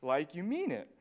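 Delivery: put-on mildly insistent parent correcting a child; parent's correction. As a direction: urge it like a parent prompting a kid. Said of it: "you have to tell him, like".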